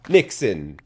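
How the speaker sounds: high, very loud, drawn-out shout; full-volume angry holler; frustrated yelling. Real, not acted. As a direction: yell it out in exasperation, stretching the last words. Frustrated outburst before the story.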